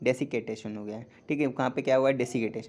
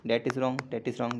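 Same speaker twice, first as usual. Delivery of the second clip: "that is wrong" said slowly and firmly; slow emphatic correction; much slower than usual. Shown as a demonstration. Teacher firmly correcting students' spelling. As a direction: drive the correction home.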